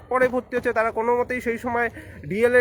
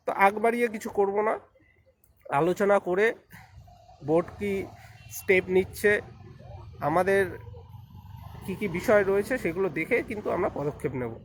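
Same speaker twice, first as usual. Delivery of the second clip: talking while walking; jogged voice; 5 dB quieter than usual. Real, not acted. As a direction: voice jolted by footsteps. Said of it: "হাঁটতে হাঁটতে বলছি".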